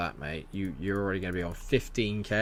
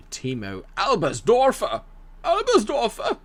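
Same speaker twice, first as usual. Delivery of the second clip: put-on German accent; 11 semitones higher, 5 dB louder, slower than usual. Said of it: "I don't know if that was a very good German accent".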